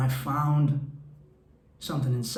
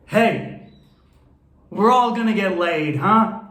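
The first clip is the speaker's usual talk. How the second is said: high, loud, bug-eyed Dangerfield bark; Rodney Dangerfield; 6 semitones higher, 7 dB louder, slower than usual. Retold or imitated. Quoting the end of Caddyshack, in a loud high comic bark. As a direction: punch it out like a cocky old comic. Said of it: "as Rodney Dangerfield says".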